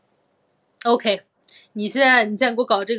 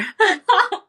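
high giggle; 11 semitones higher, 7 dB louder than usual. Real, not acted. Laughs at half popsicle.

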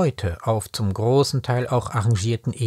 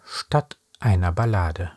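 slow, measured verse with deliberate pauses; deliberate, paced reading of a poem; poem recitation; slower than usual. Acted. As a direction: recite it line by line, weighting each phrase. Recites a poem, then talks about it.

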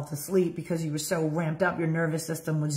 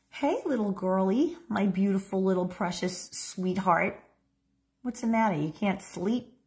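gentle, soothing mother at the bedside; a loving mother calming her little girl; tender mother. Shown as a demonstration. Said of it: "I'm gonna demonstrate how this should have gone down for you".

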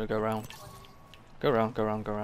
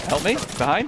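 shouting for help; 8 semitones higher, 8 dB louder than usual. Real, not acted. Teammate under attack from behind.

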